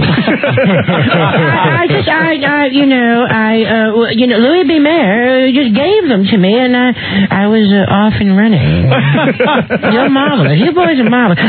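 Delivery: lightly voiced slurring diva, rambling; a hint of drunk Judy Garland thanking Louis B. Mayer; tipsy Judy Garland impression. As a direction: ramble like a star full of pills. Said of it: "All liquored up".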